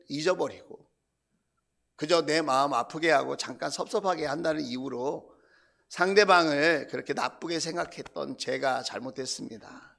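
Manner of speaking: low, subdued confession; re-enacted apology to God, sinking in pitch; repentant prayer. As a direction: admit the fault quietly and humbly. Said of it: "그럼 제가 회개하죠".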